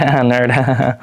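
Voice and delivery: a jeering laugh, mocking the kid. Classmate jeering at a nerd, mocking laugh. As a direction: sneer it out with a laugh. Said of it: "you're like".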